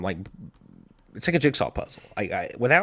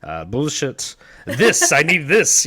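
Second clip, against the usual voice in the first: loud, higher mock art critic; Frank Reynolds; 7 semitones higher, 11 dB louder than usual. Host mimicking a TV art critique bit, loud and pompous. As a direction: pronounce verdicts loudly, drawing out the last one. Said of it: "the art critique bit, he's like".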